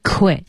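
"quit" given full emphasis; "quit" set apart as the stressed word. Shown as a demonstration. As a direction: land firmly on the word "quit". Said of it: "重读".

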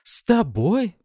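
high, loud, swooping question; scornful disbelief. A narrator's reading. Wife rejecting husband's offer to talk, scornful. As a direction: throw the offer back at him.

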